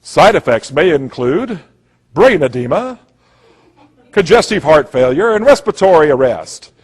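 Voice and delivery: lightly voiced drug-ad disclaimer; a hint of mock commercial announcer; little disclaimer voice. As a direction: mimic the side-effects voice-over. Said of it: "you hear this little voice go".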